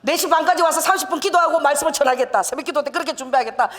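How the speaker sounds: 군대식 복창하듯 크게; loud recitation. Retold or imitated. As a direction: declare it like a soldier repeating orders. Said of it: "이 복창을 아버지가 열 번 하라는 거야".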